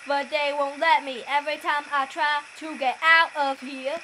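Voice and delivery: a hint of a toad voice; frog voice. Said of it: "I need to think of a frog voice".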